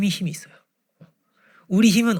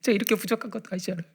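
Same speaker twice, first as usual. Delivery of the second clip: imitating tearful prayer; 6 semitones higher, 3 dB louder than usual. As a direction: wail it like someone crying while praying. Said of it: "이러면서 막 우는 거예요". (엉엉 울며 기도하는 흉내)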